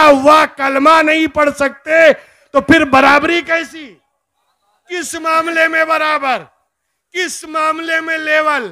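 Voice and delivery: impassioned pulpit rebuke; full-force preaching. Acted. Preacher declares the offender cast out of Islam, full-force preaching. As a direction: drive each point home to the congregation.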